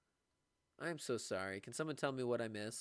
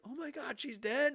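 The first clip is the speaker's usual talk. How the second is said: much higher gasp of alarm; mock shocked students; 6 dB louder than usual. Students thinking the teacher's mom died, mock shock. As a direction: play the kids' horrified misunderstanding. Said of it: "They're like".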